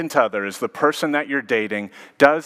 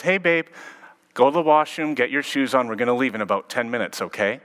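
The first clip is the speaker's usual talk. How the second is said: sweet mom; faster than usual. Retold or imitated. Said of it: "it's this very sweet mom who says".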